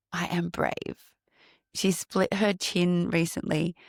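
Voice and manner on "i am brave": put-on slow, soft little-girl voice, lightly done; a hint of a small child saying her line; imitating little niece. Aunt imitating her niece's brave little line, slow and soft. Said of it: "says this line".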